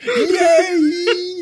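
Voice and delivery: very high, loud squeal; shrieked kiddie cheer; cheering little boy. Acted. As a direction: whoop like an overjoyed small child. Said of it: "He's like".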